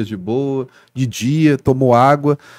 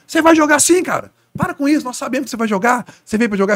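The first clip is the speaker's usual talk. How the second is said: much higher, pushy fan voice; insistent fan; 10 semitones higher than usual. Retold or imitated. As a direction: badger him as a pushy fan would. Fan insists he'll play.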